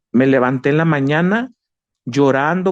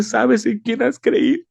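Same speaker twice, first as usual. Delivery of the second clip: God's gentle question; 10 semitones higher, slower than usual. Retold or imitated. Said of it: "cuando me dice".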